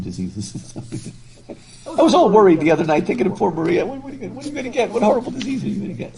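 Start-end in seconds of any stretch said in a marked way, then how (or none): 3.9-6.2 high, quick, anxious fretting, a touch hammed-up; fussing over a friend's health, half-joking; mock worry. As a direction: fret at top speed in a high voice. Mock-voicing worried friend's fretting.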